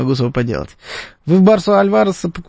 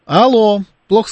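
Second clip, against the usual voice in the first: calling out; 7 semitones higher, 4 dB louder than usual. Real, not acted. Bad phone line, calling out.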